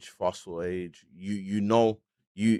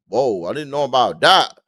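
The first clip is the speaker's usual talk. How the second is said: surprised; 3 semitones higher, 10 dB louder than usual. Real, not acted. Reacting to a new allegation.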